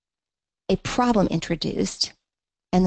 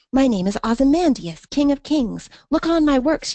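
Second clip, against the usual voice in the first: pitched higher and louder, grandly declaimed; proud king's boast; 7 semitones higher, 4 dB louder than usual. Acted. Teacher voicing Ozymandias's inscription, grandly proud. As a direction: boom it out like a vain emperor.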